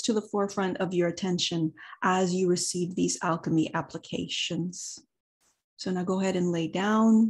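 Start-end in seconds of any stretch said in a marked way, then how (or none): 5.8-7.3 guided meditation. Acted.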